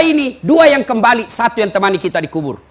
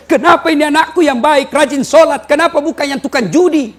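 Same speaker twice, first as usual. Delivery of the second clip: mock wailing; 4 semitones higher, 4 dB louder than usual. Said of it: "meraung-raung".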